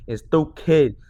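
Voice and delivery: usual speaking voice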